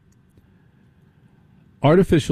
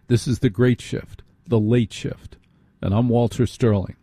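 radio station ID. Acted. Station identification read.

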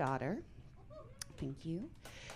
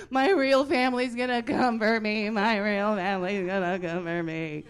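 freaking out; 2 semitones higher, 8 dB louder than usual. Retold or imitated. Little sister told she was adopted, freaking out. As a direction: wail it like a hysterical little kid. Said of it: "She started freaking out".

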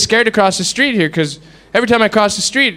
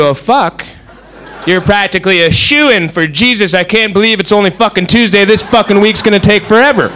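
mock exasperation. Acted weary-week exclamation in a bit.

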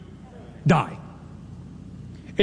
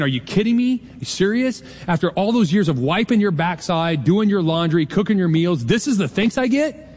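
mock indignant mom; 2 semitones higher than usual. Preacher imagines Mary scolding her son, mock outrage. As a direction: play the offended mom for laughs.

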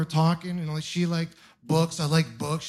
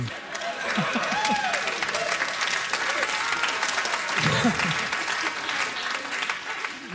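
airy falsetto squeal; high breathy mock wail; 5 dB quieter than usual. Comic squeal to the Greek mother. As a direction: squeal it like a ritual cry.

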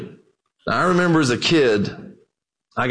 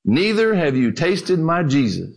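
calm. Acted. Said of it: "said calmly".

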